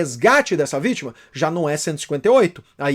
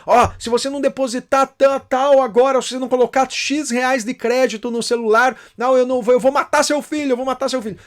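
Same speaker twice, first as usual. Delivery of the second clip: higher, insistent threat; kidnapper threat; 4 semitones higher than usual. Retold or imitated. Prisoner threatening to kill the son, raised. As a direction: press the parent for money. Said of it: "Aí ele liga".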